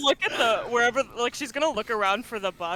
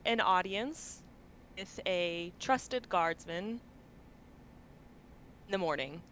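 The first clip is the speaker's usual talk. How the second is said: sending message; 6 dB quieter than usual. Acted. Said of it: "casting sending".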